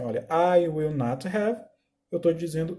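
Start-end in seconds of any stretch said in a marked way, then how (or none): 0.3-1.6 slow, careful English example; slow teacher's model sentence; slow example read. Shown as a demonstration. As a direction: read it out slowly, word by word. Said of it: "se eu falo assim".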